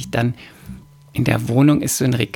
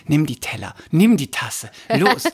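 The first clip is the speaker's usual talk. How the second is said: hot-blooded urging; 6 semitones higher than usual. Retold or imitated. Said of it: "mein lateinamerikanisches Blut in mir".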